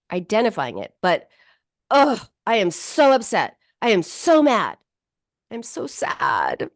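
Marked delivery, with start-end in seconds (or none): 1.9-6.7 groaning "Ugh, I am so upset" with conviction; felt with intensity. Shown as a demonstration. Therapist showing how feeling a feeling sounds. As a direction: let the upset come through the voice. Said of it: "That's beginning to feel it".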